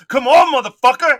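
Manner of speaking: loud, high fighting taunt; cocky challenge. Acted. Cricket to the person stepping on it, belligerent shout. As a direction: shout it like spoiling for a brawl.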